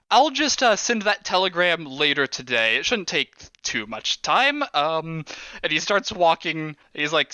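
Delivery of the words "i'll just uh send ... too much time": casual boss. Acted.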